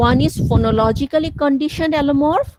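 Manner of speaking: term drawn out very slowly; slow dictation. Shown as a demonstration. Teacher dictating the term to students. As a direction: dictate it slowly for note-taking. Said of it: "dictating a term".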